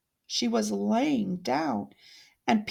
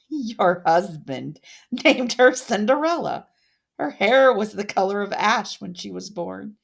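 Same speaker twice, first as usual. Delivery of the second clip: cruel taunt. Acted. Odette taunting with the baby.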